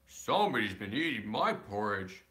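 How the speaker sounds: lightly voiced big bear grumble; gruff big bear. Parent reading the great huge bear, mildly gruff. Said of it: "in his great, rough, gruff voice".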